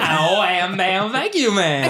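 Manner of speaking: sing-speak it like a singer; singer impression. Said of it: "I take pride in my impressions".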